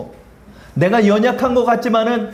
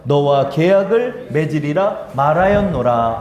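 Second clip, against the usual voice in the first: scripture reading. Acted. Pastor leads joint scripture reading.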